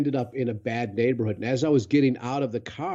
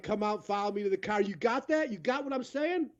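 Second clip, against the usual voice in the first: rough local guy; 7 semitones higher, 6 dB quieter than usual. Retold or imitated. Locals leading him out.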